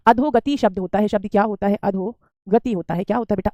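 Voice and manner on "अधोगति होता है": slow and clear, syllable by syllable; teacher dictating slowly; slow dictation. Shown as a demonstration. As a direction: spell the word out slowly for the class. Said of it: "अधपति कुछ नहीं होता".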